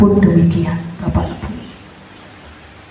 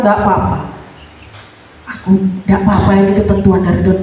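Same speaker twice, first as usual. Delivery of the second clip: forcing strength; 2 semitones lower, faster than usual. Retold or imitated. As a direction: rush through it to keep from breaking. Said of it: "di depan jemaat dia berusaha kuat".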